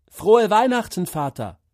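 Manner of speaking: bursting, high and loud joy; excited greeting. Acted. Boy joyfully wishes his father merry Christmas. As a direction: blurt it out with glee.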